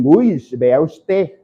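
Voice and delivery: slow Andean speech with a full, hissed S in usted; Andean accent. Acted. Teacher quoting Andean speakers, slow Andean accent with sibilant S. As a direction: draw it out like an Andean, sounding the S. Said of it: "cuando los andinos dicen".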